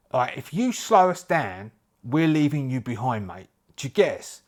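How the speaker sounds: a hint of a blunt, stern gang leader; lightly voiced tough leader. Staff warns Jack he'll be left behind, a lightly voiced stern leader. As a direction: lay down the rules, clipped and firm.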